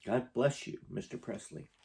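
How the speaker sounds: fading to a breathy near-whisper; tearful. Real, not acted. Reader rereads the man's thanks to a singer, tearful whisper. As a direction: barely get the words out through tears. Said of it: "making me emotional".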